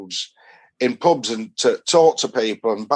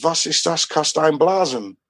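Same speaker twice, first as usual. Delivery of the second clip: polite mock German; 3 semitones higher than usual. Shown as a demonstration. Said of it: "be really polite and say".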